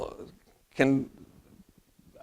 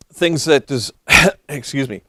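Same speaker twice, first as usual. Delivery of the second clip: losing voice, hoarse and strained; hoarse, voice giving out. Real, not acted. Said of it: "sorry, I'm losing my voice".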